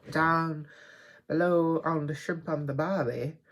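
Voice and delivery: hammed-up, clumsy Aussie accent; badly faked Australian twang. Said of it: "No more Australian accent".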